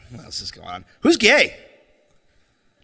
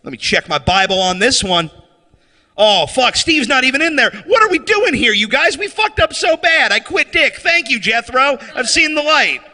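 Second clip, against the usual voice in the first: mock converted redneck; 6 semitones higher than usual. Redneck discovers Steve is missing from the Bible, in mock dismay. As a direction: play the sudden convert. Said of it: "they were gonna be like".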